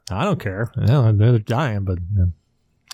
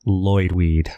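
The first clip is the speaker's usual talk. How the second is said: deadpan; 4 semitones lower than usual. Pretend. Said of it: "you deadpan it".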